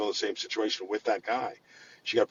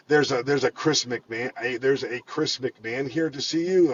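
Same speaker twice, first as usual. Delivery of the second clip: slow, halting, puzzled announcement; confused; 3 semitones higher, slower than usual. Retold or imitated. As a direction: stumble over the visitor's name as if lost. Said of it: "all confused".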